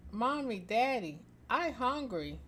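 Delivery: put-on high childish voice; lightly voiced small child; little girl voice.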